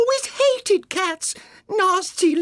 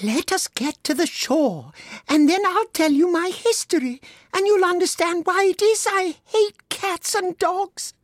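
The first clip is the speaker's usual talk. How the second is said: low, trembling; 3 dB louder than usual. A narrator's reading. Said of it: "in a low, trembling voice".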